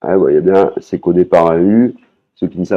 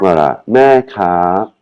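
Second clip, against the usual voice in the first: mild vendor voice; slower than usual. Shown as a demonstration. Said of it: "c'est la vendeuse".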